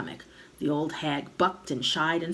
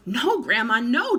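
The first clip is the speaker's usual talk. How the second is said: put-on loud alarmed boy's call; boy calling up to grandma; calling back; 6 semitones higher, 7 dB louder than usual. A narrator's reading. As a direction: shout up, panicking. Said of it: "George called back".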